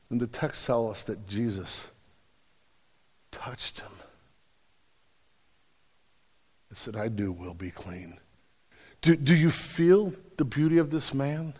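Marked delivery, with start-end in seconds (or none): 0.1-8.2 much lower and softer, almost a murmur; hushed and tender. Acted. Preacher retelling Jesus touching the leper, hushed. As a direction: lean in and say it gently.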